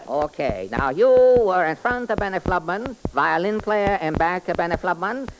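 sing-song comic detective character. Acted. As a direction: play the bumbling detective, chirpy. Detective reconstructs crime.

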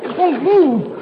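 slow, effortful shout; straining shout. Acted. Chuck shouts while pushing the stuck door, slow and strained. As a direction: strain against the door as you say it.

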